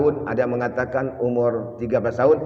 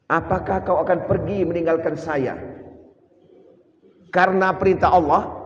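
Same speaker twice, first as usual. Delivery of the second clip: questioning wife; 4 semitones higher than usual. Retold or imitated. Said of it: "Dua kali ditanya oleh Siti Hajar".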